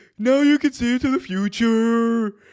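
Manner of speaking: very high, loud alien voice, "future" stretched out. Imitating an alien from Dragon Ball Z abridged: Tony Khan impression. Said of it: "he's basically my Tony Khan impression".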